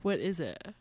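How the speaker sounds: talking through a yawn; words stretched by a yawn. Real, not acted. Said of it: "I'm yawning on the air".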